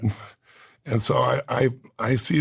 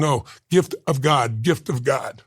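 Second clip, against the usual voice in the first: slow insistence; slower than usual. Retold or imitated. Voices the woman's grateful insistence.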